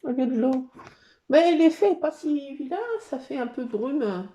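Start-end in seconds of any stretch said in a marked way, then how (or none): 0.0-0.7 high, loud mock exclamation to Mum; raised-pitch quote, calling out the mistake; imitating Luc. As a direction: pipe up like a child alerting his mother. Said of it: "Luc me dit".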